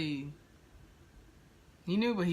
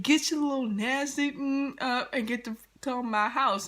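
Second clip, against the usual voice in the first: mock angry mom; 8 semitones higher than usual. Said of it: "She's like".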